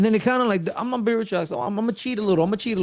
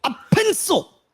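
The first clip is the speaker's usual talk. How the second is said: laughing, much higher; 13 semitones higher, slower than usual. Retold or imitated. Fan cracking up while repeating the pencil line. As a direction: squeal it out through a laugh.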